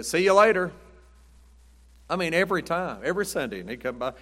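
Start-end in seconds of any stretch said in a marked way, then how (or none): 0.0-0.7 put-on old man's farewell. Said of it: "He'd say".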